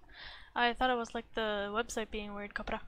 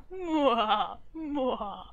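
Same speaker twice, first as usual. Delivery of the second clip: villain laugh; 6 dB louder than usual. Pretend. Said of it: "Cue mustache twirling".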